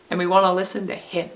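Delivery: quick run-up landing on "him"; stress on HIM. Shown as a demonstration. Teacher urging children whom to listen to, stress on "him". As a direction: save the weight for "him". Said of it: "if we stress the last word".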